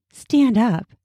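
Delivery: a hint of a seductive command. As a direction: tease him as you give the order. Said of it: "she said in a seductive voice".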